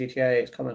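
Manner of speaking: plain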